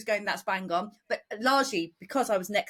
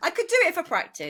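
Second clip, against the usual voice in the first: ordinary talk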